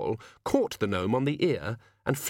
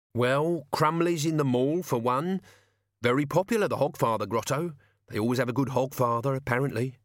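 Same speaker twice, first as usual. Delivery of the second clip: lightly raised servant voice; reluctant servant; 3 semitones higher than usual. Acted. Servant telling his master where the grotto is, reluctant. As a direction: admit it reluctantly, phrase by phrase. Albert gives in.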